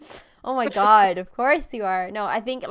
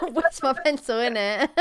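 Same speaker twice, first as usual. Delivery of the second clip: laughing mimicry. Host echoing the camp kids' pencil line, laughing mimicry. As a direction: repeat it back through laughter.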